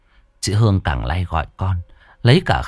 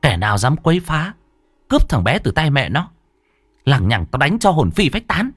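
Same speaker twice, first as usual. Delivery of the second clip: firm warning, climbing higher as it goes; hardened voice; 5 semitones higher than usual. Acted. Woman warning a spirit off the baby, hardened voice. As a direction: issue a steely, measured threat. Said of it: "giọng chị đanh lại".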